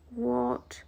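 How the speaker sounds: breathless, voiceless disbelief; dazed whisper. Retold or imitated. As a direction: whisper it, too stunned to speak. Dazed after being let go.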